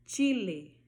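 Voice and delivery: chile with a crisp CH; Spanish ch sound. Shown as a demonstration. Teacher demonstrating ch in chile. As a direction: say chile, clear CH start. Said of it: "o nome da letra já é o som dela".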